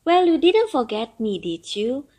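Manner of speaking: put-on an old turtle longing for freedom; grumbling old turtle. Turtle voiced in story.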